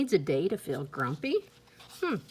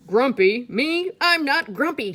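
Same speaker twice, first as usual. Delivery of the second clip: higher, louder indignant protest; indignant denial; 7 semitones higher, 8 dB louder than usual. Acted. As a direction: deny it, offended and loud. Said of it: "said Jim".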